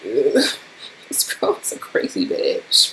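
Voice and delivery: slow, breathy whisper behind her back; hushed slow aside. Real, not acted. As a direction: whisper it so she can't hear. Aside about roommate within earshot.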